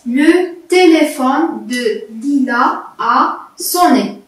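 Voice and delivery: répété lentement et posément; slow repeat. Shown as a demonstration. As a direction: redis la phrase doucement, sans presser. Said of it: "je répète". (répétition lente)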